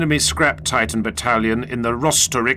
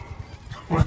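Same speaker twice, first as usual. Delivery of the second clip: laugh; 5 semitones higher, 6 dB quieter than usual. Acted. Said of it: "Do not laugh at me".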